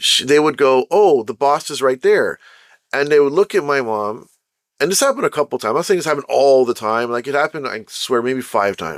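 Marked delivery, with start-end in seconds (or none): none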